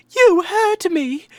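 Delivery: very high, loud, bright, happy-go-lucky cheerful voice. Showing how a game character should sound: imitating a very happy guy. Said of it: "this very happy guy be like".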